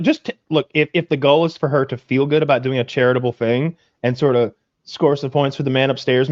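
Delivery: normal talking voice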